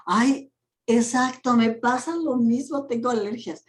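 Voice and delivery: high, fast, eager me-too whine; mock hypochondriac. Teacher mocking a coach who shares the client's complaints, eager me-too. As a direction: play the copycat who just has to match every symptom.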